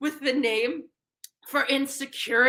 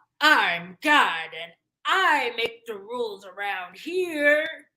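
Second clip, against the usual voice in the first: deep, low, slow authoritative voice; 5 semitones lower than usual. Doing an impression of God to God himself: impression of God. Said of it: "my impression of you".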